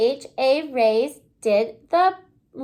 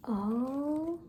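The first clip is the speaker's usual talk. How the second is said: storyteller's gasp, then a much softer "oh"; mock gasp; 14 dB quieter than usual. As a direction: act surprised for the children. Surprise at George in truck.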